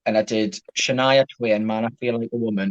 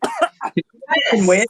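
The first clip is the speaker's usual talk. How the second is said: slow drawn-out; 8 semitones higher, much slower than usual. Real, not acted. Drawn-out exclamation.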